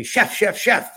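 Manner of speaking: high, urgent repeated calling; excited stammer. Retold or imitated. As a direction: imitate an excited friend stuttering. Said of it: "He has a stutter when he gets excited".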